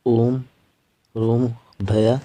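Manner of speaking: slow, vowel of ओम held for three beats; teacher drawing out the long pluta vowel; pluta vowel demo. Shown as a demonstration. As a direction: stretch the ओ in ओम, रोम to triple length. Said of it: "उसके आगे हिंदी की गिनती का तीन लिखा जाता है".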